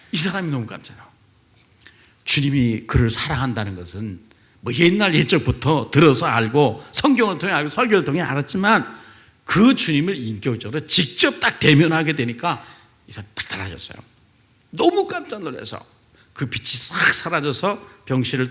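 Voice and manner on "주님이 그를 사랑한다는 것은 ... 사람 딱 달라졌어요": usual speaking voice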